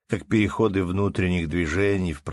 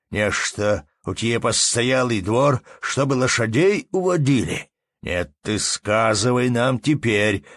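angry accusation; 3 semitones higher, 4 dB louder than usual. Acted. Angry man accusing innkeeper.

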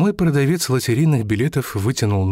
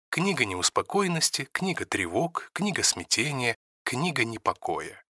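softer, set-apart reading of a note; footnote aside; 7 dB quieter than usual. A narrator's reading. Narrator reading a footnote aloud, softer and detached. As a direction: drop the voice for an editor's footnote.

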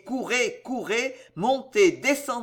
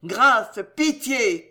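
loud pleas for mercy; crying out; 2 semitones higher, 4 dB louder, much slower than usual. Acted. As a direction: victims cry out for mercy below, loud pleading. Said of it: "crièrent des voix".

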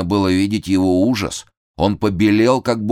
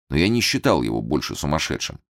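plain reading voice

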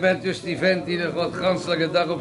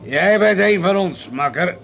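hearty; 5 semitones higher, 4 dB louder than usual. Acted. Boisterous drunk host greeting.

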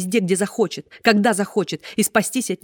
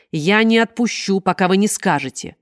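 требовательный окрик; 3 semitones higher, 6 dB louder than usual. Acted. Женщина держит доктора и требует.

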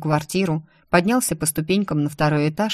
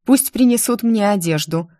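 higher, firm order; commanding; 5 semitones higher, 3 dB louder than usual. Acted. Heroine demands her clothes, commanding. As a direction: give the order with force. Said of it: "приказала".

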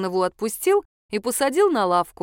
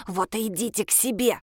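шипение. A narrator's reading. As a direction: hiss the words at her. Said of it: "зашипела она". (служительница шипит на посетительницу)

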